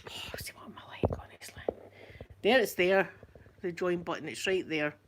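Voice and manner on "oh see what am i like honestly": whispered grumble to herself; muttered aside. Real, not acted. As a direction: mutter it under your breath. Muttering to self over the button.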